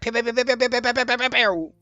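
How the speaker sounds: light playful pew pew; pew sounds. Acted. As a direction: mimic little laser shots. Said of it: "just like".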